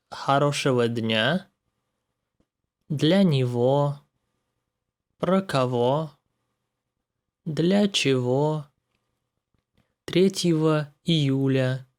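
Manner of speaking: хорошего дня, для него with г said as в; ого as ово. Shown as a demonstration. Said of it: "This ого-его is pronounced like ово-его".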